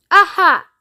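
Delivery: high, loud triumphant aha; gleeful aha. Acted. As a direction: tease with a secret. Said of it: "cried Mister Wonka".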